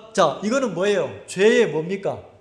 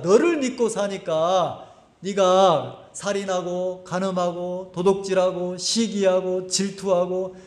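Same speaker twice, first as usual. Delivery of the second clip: voicing the Spirit; 3 semitones lower than usual. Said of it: "성령이 나보고 뭐라고 가르치겠어요".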